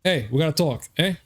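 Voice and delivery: hammed-up Boston accent. Shown as a demonstration. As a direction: lean into a thick Boston accent. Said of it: "what was that Boston accent?".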